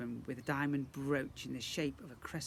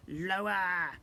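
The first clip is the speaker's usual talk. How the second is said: high, louder goblin order; squeaky command; 5 semitones higher, 7 dB louder than usual. Acted. Goblin prince orders the family to bow, squeaky command. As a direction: bark it down at them. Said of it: "Grogber commanded".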